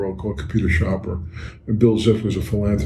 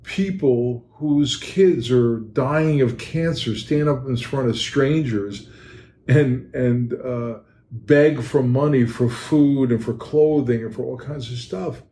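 slow incredulous outrage; 3 semitones higher, slower than usual. Retold or imitated. Retold outrage at begging parents.

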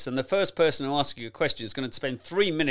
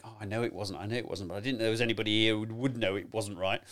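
inner thought; 5 semitones lower, 7 dB quieter than usual. Retold or imitated. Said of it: "And you think".

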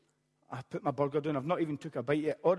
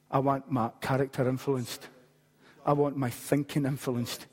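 slow, deliberate, every word weighed; slow earnest declaration; slower than usual. Real, not acted. Preacher telling his flock what he wants, slow and earnest. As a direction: lay it down slowly like a vow.

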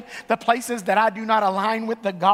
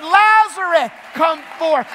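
Lazarus shouted much higher and louder, then come forth firm; commanding call; 6 semitones higher, 7 dB louder, slower than usual. Acted. Preacher voicing Jesus calling Lazarus from the tomb, a loud commanding shout. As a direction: call a dead man out of the grave.

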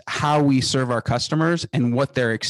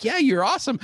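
imitating wife; 11 semitones higher than usual. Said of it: "And she's like".

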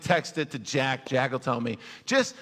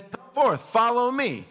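calling shepherd; 5 semitones higher, slower than usual. Acted. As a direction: call the flock to follow. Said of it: "And he says".

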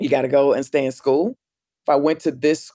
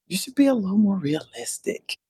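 higher, softer mock-advice voice; mocking the doubters; 6 semitones higher, 4 dB quieter than usual. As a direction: parrot the doubters in a put-on voice. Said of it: "something I've been told my entire life".

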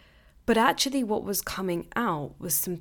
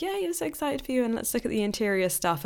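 imitating mum, much higher, forced brightness; forced cheer; 5 semitones higher than usual. Mum hiding sadness about the move, mock forced cheer. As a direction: play mum putting on a brave happy face. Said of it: "she's been really trying to be like".

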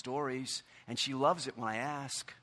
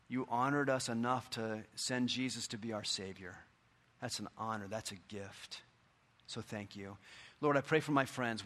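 closing prayer. Acted. Closing prayer over congregation.

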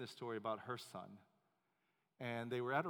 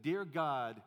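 put-on higher, louder eager boy praying; lightly voiced boy's hearty prayer; mock child's prayer; 3 semitones higher, 5 dB louder than usual. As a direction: pray it like a proud little kid. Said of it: "He said".

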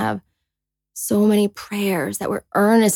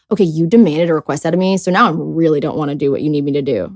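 sulky imitation; 5 semitones lower, faster than usual. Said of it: "our human nature is to be like".

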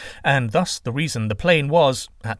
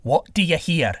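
raised, insistent voice; loud demand easing into a question; commanding sky god; 5 semitones higher, 5 dB louder than usual. Acted. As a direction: order your rival to listen.

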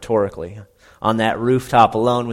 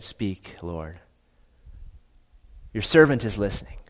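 quivering voice; 4 semitones lower, 7 dB quieter than usual. Acted. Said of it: "With a quiver in his voice".

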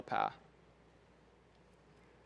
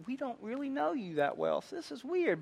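mock nervous; 7 semitones higher, 9 dB quieter than usual. Nervous reply in counseling story.

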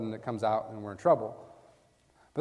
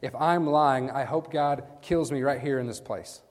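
calling down curses; slower than usual. Acted. Peter swears he isn't lying, emphatically. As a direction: stake your life on it. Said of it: "was literally saying".

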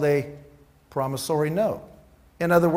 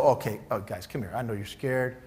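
soft, lower coaxing to frightened men; gentle comforting; 4 semitones lower, 4 dB quieter than usual. Retold or imitated. Jesus soothing his scared disciples, a soft gentle voice. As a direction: coax them in like scared kids. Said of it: "He doesn't go".

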